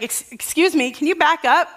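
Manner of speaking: startled, push the follower away; mock indignant. Preacher imagining a stranger behind her, mock indignant. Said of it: "I would be like".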